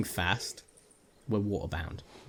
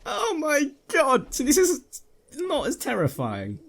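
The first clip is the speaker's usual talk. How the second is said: shaken relief; 5 dB louder, slower than usual. Real, not acted. Relief after scare.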